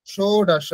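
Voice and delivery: ষোড়শ with a clear o vowel, shoro-sho; ষোড়শ said with o-kar; o sound. Shown as a demonstration. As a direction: round the o in ষোড়শ. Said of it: "এখানে ওকার হয়ে গেছে".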